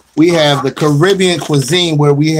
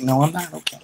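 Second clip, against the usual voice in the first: mock reply; 2 semitones higher, 8 dB quieter, faster than usual. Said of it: "I just did that to see".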